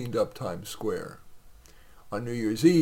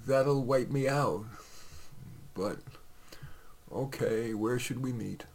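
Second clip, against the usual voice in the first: murmuring. Acted. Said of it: "feigned tears, waited and murmured".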